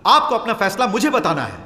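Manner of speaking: heated challenge, short of a full shout. Acted. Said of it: "इस तरह चिल्लाना".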